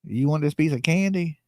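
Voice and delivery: lightly hammed-up creepy stranger luring with candy; creepy candy offer. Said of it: "be like".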